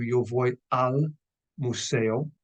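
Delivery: slow yo voy al museo, al as one word; combined form. Shown as a demonstration. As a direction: join a and el into al, slowly. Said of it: "which combines to".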